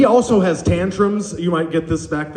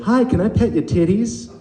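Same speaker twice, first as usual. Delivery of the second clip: lightly imitated little girl, pitched higher; two-year-old toddler; 5 semitones higher than usual. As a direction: innocent toddler asking, T's in place of K's. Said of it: "two-year-old who doesn't say her K's very well".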